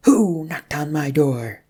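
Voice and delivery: loud, slow, spoiling for a fight; belligerent demand. Acted. Rum at her door demanding who knocked, belligerent. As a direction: bark it at the knocker. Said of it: "looking rather like she wanted to fight something".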